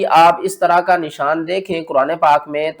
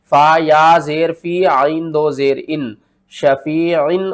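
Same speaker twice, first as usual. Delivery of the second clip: slow chanted spelling, ending on शफीइन; spelling recitation; slower than usual. Shown as a demonstration. Teacher spells शफीइन in a chant for students. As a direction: spell it out, then sound the ain clearly. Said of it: "किस तरह?".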